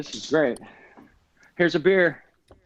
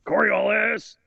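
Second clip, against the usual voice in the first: calling out; 6 semitones higher, 3 dB louder, slower than usual. Real, not acted. Cheering on a friend's throw.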